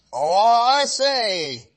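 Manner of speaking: put-on high, slow girlish answer; a little girl calling out brightly; lightly voiced little girl; Red Riding Hood voice. A narrator's reading. Child answering the wolf.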